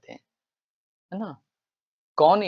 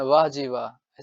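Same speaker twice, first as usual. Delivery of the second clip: cheeky praise; 3 dB louder, slower than usual. Shown as a demonstration. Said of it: "ऐसा बोलता है कि नहीं?".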